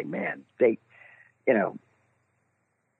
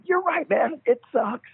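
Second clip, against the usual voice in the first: high, squeaky eager-to-please voice; mock your own nervous, starstruck agreeing; pitched way up, over-agreeable and jittery; nervous agreement; 12 semitones higher than usual. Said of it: "I was so nervous".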